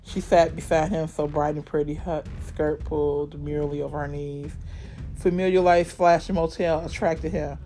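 dramatic read-aloud narration; story narration. A narrator's reading. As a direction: read it like a gritty thriller.

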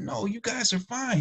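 very high, drawn-out dismissal of worry; friendly reassurance. Retold or imitated. Speaker telling neighbor the party is fine, reassuring. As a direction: wave away the worry in a high voice.

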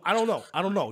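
lightly done New York accent; quick New York mumble; hint of a New York accent. Shown as a demonstration. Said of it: "somewhat of a New York accent".

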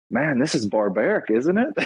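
imitating a British friend, rising sharply up on "isn't it"; a put-on British accent, incredulous; mock British disbelief; bad British accent. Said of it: "this may be a bad British accent".

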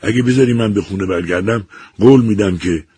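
a shaken woman promising anything to get home; trembling plea. A narrator's reading. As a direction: Eliza begging the voice to let her go.

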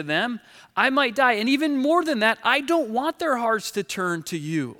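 Jonah. Acted. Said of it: "I'm kinda with Jonah then".

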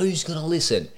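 high, exaggerated sceptical wife voice; mock her doubt in a lifted pitch; mocking his missus. Podcaster imitating his doubting missus, high mocking voice. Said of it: "I'm mocking her".

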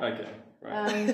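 laughing. Real, not acted. Laughing teasing reply.

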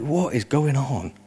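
slow, quiet mock bewilderment; bewildered. Speaker retelling being out on the street, bewildered. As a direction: draw the question out softly, puzzled. Retold bewilderment at night alarm.

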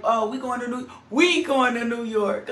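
mock church folk. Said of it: "our down south people and community is like".

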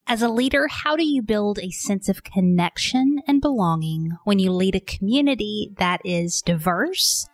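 polished host introduction with deliberate emphasis; podcast intro read. Real, not acted. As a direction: pose the questions, then present the guest. Scripted episode introduction over music.

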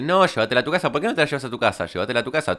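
high-pitched mock yell, insistent; retold yelling. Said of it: "ella gritándome más todavía". (grito agudo imitado, insistente)

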